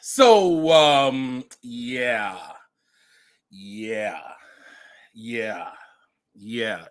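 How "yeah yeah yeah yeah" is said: low, soft, spaced-out yeahs; subdued knowing reaction. Real, not acted. Host letting the clip sink in, subdued and knowing. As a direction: let each one drop, deadpan.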